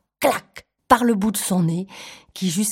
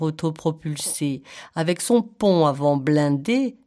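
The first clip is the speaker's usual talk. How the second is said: lightly voiced formal python; a hint of grand snake speech; python's manner. Python urging the elephant child, lightly pompous. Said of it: "Ils parlent tous comme ça".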